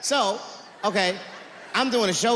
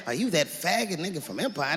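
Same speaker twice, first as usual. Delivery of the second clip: mock white guy; 4 semitones lower, 5 dB quieter than usual. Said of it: "They don't talk like that".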